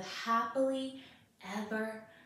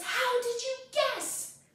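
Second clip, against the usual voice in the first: very high, enraged, furious goblin voice; 12 semitones higher, 3 dB louder than usual. Telling Rumpelstiltskin to children, the goblin speaks: angry goblin voice. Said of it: "the goblin is so angry".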